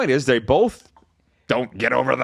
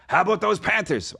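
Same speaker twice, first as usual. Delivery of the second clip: put-on higher-pitched, half-hearted Latino accent; attempted Latino accent; 5 semitones higher than usual. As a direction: imitate a pizza guy's mild Latino accent. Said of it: "not real good at the Latino accent".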